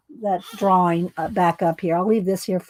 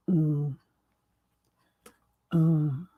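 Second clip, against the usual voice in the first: exhale moan; 4 semitones lower, 4 dB quieter than usual. Shown as a demonstration. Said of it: "I'd hold my breath and then I'd go".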